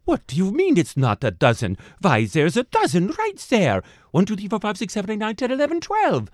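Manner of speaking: indignant counting. A narrator's reading. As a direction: count it out, climbing in exasperation. Baker counts cookies indignantly.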